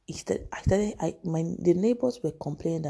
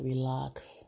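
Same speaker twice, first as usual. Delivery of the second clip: whispered; 2 semitones lower, 5 dB quieter than usual. Retold or imitated. Casey calming her, whispered.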